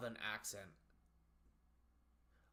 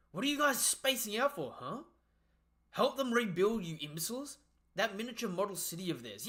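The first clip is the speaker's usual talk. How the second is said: high, loud impatient ordering; acted scolding; 6 semitones higher, 5 dB louder than usual. Giant scolding idle underlings to help rebuild, acted impatient shout. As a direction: berate the underlings as an acted boss.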